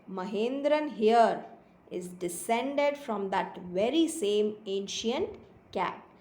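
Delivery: slow, deliberate storybook reading; story read-aloud. A narrator's reading. Boy boasting of the cat's ancestry, slow read-aloud. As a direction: read it out unhurriedly, spacing each phrase.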